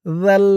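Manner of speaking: "জাল" with a soft th as in "that"; tongue tip at upper teeth for জাল; soft dhal. Shown as a demonstration. Teacher demonstrating the soft letter, জাল with tongue at the teeth. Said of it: "জালের উচ্চারণটা নরম হবে".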